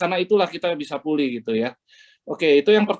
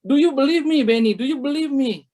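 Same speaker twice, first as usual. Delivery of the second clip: higher-pitched, insistent divine question; raised, emphatic voice of God; God speaking; 7 semitones higher than usual. Retold or imitated. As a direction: press the question home as God calling him by name. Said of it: "Tuhan bilang".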